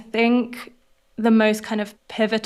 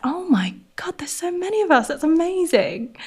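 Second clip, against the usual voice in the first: whispered amazement, higher; awed whisper; 9 semitones higher than usual. Retold or imitated. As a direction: breathe it out in wonder. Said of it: "I was like".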